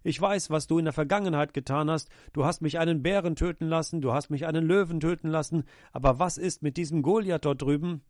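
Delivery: a man losing his nerve before a giant; panicked cry to God. Acted. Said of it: "schrie er nicht".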